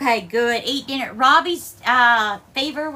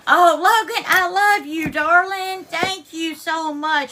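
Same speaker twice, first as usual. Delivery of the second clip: higher and louder, choked with emotion; grateful tears; 4 semitones higher, 5 dB louder than usual. Real, not acted. Streamer tearfully thanking Logan for gifts, voice choked. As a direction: thank him through happy tears. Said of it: "it's grateful tears".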